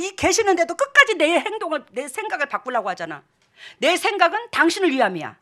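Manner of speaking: normal talking voice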